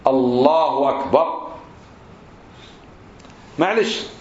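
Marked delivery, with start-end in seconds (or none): 0.1-1.5 الله أكبر slow, with a short u ending الله; measured "Allahu akbar", the h clearly voweled; correct takbir. Shown as a demonstration. Teacher showing the damma on the ha, careful model. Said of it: "هي حرف الهاء عليه ضمة".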